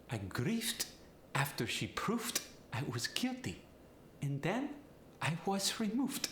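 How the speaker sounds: Polish accent with V hardened to F. Shown as a demonstration. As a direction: Polish accent, "proved" as "proofed", "removed" as "remoofed". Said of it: "V goes to the F".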